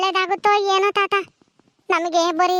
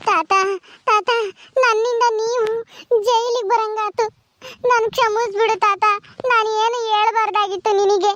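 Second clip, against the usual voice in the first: tearful plea. Acted. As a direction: beg grandpa's forgiveness on the edge of crying. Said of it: "ಸುಮ್ನಿರು, ಅಳ್ಬೇಡ". (ಅಳುತ್ತಾ ಕ್ಷಮೆ ಕೇಳುವುದು)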